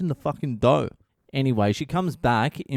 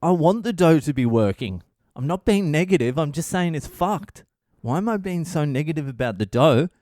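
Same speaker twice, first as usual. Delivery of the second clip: higher-pitched indignant comeback; 4 semitones higher than usual. Retold or imitated. Husband defending himself to yelling wife, indignant. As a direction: argue back, mildly exasperated, in a retold quarrel.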